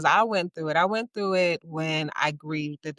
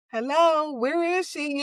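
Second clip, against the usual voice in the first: calling for herself; 10 semitones higher, 3 dB louder than usual. Retold or imitated. Searching for lost self.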